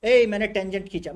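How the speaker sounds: half-shouted mock proclamation. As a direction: call it out as a pretend boast. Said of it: "लेकिन चिल्लाए क्या".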